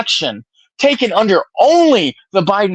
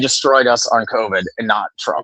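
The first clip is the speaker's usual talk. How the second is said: lower-pitched, deliberately calmed argument; calming down; 6 semitones lower than usual. Real, not acted. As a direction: bring it down after getting heated. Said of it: "I'm gonna calm down".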